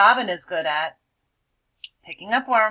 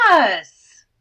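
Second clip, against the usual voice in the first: much louder, bursting with joy; joyful cry; 11 dB louder than usual. Acted. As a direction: exclaim it happily. Joyful exclamation in story.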